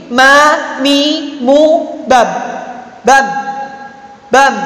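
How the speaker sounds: "bam" with a medium M; half-held M. Shown as a demonstration. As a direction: hum the M of "bam" briefly, then stop. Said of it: "tengah-tengah".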